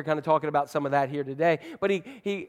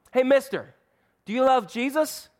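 put-on higher, eager child's question; little girl voice; 8 semitones higher than usual. A girl on a plane asking her seatmate, in a higher childlike voice. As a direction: chirp it like an excited kid.

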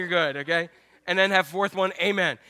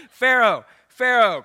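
louder mock parent call, Pharaoh, Pharaoh; 6 dB louder, slower than usual. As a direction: call the kid across the house, half-joking. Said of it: "when I was saying".

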